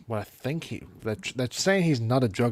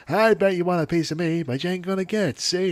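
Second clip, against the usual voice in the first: Grandpa voice; 7 semitones higher, 4 dB louder than usual. Retold or imitated. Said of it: "and he's like".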